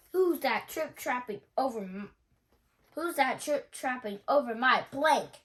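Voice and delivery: chirped. A narrator's reading. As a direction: taunt the troll playfully. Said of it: "chirped Hidden Chief".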